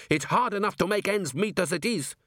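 high, aggrieved protest; hotly. A narrator's reading. Cook pleads hard times to his accusers, mildly hot. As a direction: protest with mild indignation. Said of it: "said Gimlet hotly".

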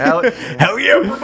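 hammed-up bro hype.

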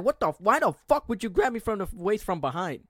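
high-pitched angry demand, acted out; retold mad outburst. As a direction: replay outraged disbelief at being grabbed. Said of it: "'cause I was mad".

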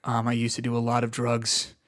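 subdued, level comic introduction; John Mulaney. Acted. Podcaster imagines the comedian coming out reformed, subdued deadpan. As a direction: play the comedian toned right down. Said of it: "if he came out and he's like".

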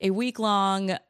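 hoarse smoker's voice; gravelly, raspy voice from a cold; vocal fry. Real, not acted. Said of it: "voice fry and, like, an incredible, like, smoker's voice".

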